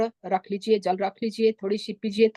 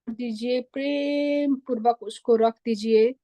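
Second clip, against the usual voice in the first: lilting, unhurried meditation voice with long pauses; soothing meditation leader, stretched vowels and spaced phrases; guided meditation. Acted. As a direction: guide listeners gently into relaxation, drawing out key words.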